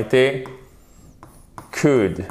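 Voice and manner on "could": "could" said as "kood", no L; lower, isolated "could" with the L left out; silent L. Shown as a demonstration. Teacher notes down "could", silent L pronunciation. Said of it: "Et vous ne prononcez pas le L".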